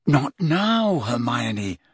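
pointed warning, pitch falling away; hint firmly that others are listening; darkly significant. Acted. Harry warns Hermione off before eavesdroppers, darkly significant. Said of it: "in a darkly significant voice".

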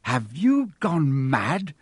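slow exasperated bellow. Acted. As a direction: roar it at her in disbelief. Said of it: "Ron bellowed".

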